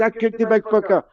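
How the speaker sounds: high, chirpy boast; proud wee monk. Acted. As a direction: crow about it like a wee monk. Third monk proudly boasting, joke climax.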